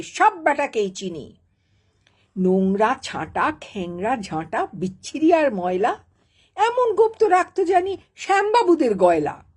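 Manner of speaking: mildly hammed-up angry tirade; comic fury. Enraged boss babu berating his staff, mock-furious recitation. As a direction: scold with theatrical indignation. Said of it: "রেগে আগুন".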